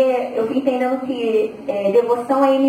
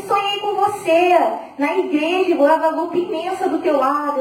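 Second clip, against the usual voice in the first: excited retelling; 4 semitones higher than usual. Retold or imitated. People telling her about a dream of Guadalupe, mildly excited. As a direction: mimic someone eagerly reporting a dream.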